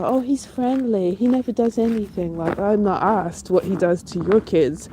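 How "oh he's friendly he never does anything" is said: mocking. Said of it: "someone's stories about".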